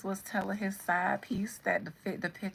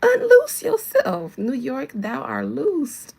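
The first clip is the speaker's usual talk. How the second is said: loud, slow preacher-style command; mock exorcism; 5 semitones higher, 13 dB louder, much slower than usual. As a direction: cast it out in mock deliverance. Mock exorcism of New York.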